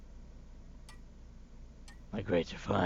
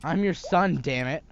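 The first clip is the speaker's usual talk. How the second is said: louder, higher outburst; angry; 4 semitones higher, 5 dB louder than usual. Acted. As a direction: shout it, hurt and angry. Son angry at mother.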